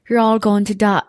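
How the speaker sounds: put-on menacing line in a botched English accent; English accent try. The speaker tries the gore lover's line in English accent. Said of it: "that's not the I was trying to do English".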